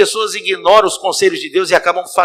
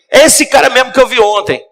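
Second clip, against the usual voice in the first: raised, higher furious accusation; angry confrontation; 8 semitones higher, 5 dB louder than usual. Acted. Husband shouting at his wife at the door, furious. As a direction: tear into her, loud and high. Husband sees the young man.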